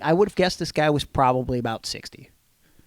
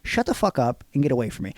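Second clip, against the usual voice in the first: offended and indignant; 5 semitones higher than usual. Real, not acted. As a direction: push back hard, indignant. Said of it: "I'm pretty offended".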